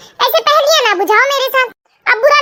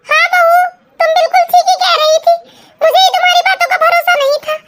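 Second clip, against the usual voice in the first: excited agreement; 5 semitones higher than usual. Acted. Mother finally believes daughter-in-law.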